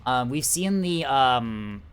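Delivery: upbeat esports caster delivery; announcer voice. Acted. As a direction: cast it like a live tournament broadcast. Casts the match as announcer.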